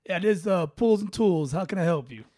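pool guy answering the phone; lightly voiced pool-company guy. Pool guy picking up a customer's call, casual phone greeting. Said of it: "I'll be pool guy".

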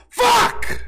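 sudden high, loud curse; real exasperated yell; frustrated shout. Real, not acted. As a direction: blurt it out as the voice cracks. Voice failing, frustrated streamer.

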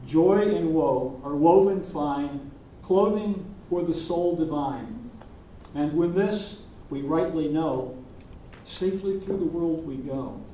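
slow, measured hymn recitation; reciting a hymn. Acted. Minister recites Blake's hymn to the congregation, slow and reverent. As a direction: let each line of verse settle. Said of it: "William Blake put it when he said".

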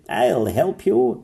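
steady gallant knight; knight offers help. A narrator's reading. Knight reassuring the unicorn, gallant. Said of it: "said the knight".

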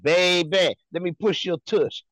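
lightly imitated flirty come-on; mock floozy. Mocking how the tush push sounds, hint of a flirt. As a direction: tease with a put-on seductive line. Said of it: "you sound like a little hoe".

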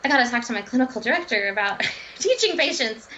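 mildly excited retelling, slightly lifted; a touch of eager enthusiasm. Retold or imitated. Dietitian wanting to tell the clinical director, mildly excited. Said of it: "you get excited".

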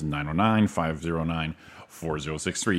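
nine oh nine, pause, five zero nine, pause, four zero six three; phone number in groups. Shown as a demonstration. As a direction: break the number into groups with breaths between. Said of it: "You take a breath in between".

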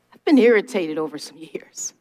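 whispered confession, near tears; fighting not to cry as she admits it; real choked-up whisper; holding back tears. Real, not acted. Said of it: "Trying not to cry".

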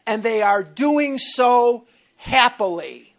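loud insistent mock yell; retold yelling. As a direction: keep hammering it at him. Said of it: "he was yelling at me".

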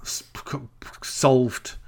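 whispered punchline; mock-solemn whisper. Real, not acted. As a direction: breathe it out unvoiced. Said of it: "whispered punchline".

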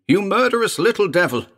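high, loud scream of outrage; screamed accusation. A narrator's reading. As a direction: scream it at the little fiend. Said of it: "Elliot screamed".

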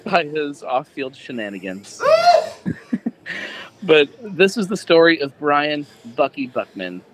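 mock sultry dramatic read; hammed-up seductive narration; sexy reading voice. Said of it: "Remember, sexy".

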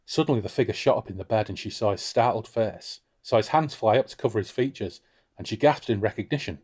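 measured read-aloud narration; story narration. A narrator's reading. Reads the novel's narration.

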